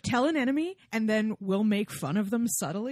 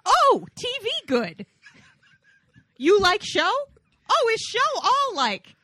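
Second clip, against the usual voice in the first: caveman voice; 8 semitones higher, 7 dB louder than usual. Acted. Caveman-like joking voice.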